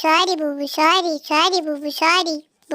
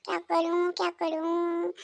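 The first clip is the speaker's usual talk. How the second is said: quiet grumbling; 9 dB quieter than usual. Acted. पत्नी खुद से धीमे बुदबुदाती है.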